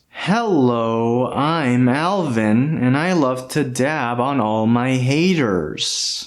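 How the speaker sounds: very slow, drawn-out delivery; slow talking for speed-up. Shown as a demonstration. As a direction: stretch every word out slowly. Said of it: "I'm gonna try to speak like a chipmunk right now".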